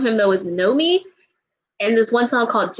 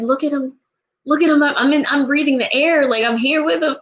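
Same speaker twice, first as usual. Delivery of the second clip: starstruck excitement; 4 semitones higher than usual. Retold or imitated. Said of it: "I was like".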